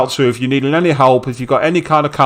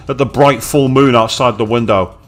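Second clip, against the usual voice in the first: reading game narration. Acted. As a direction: read the scene like a storyteller.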